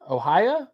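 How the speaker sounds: "Ohio" ending in a soft "-ya", rising like a question; trying the rhyme. Shown as a demonstration. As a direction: test "Ohio" as "oh-HIGH-ya", questioning. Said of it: "I figured out the rhyme".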